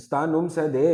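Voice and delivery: "Sta num se de" in a non-native Pashto accent; wrong Pashto accent. Shown as a demonstration. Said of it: "it will be totally wrong".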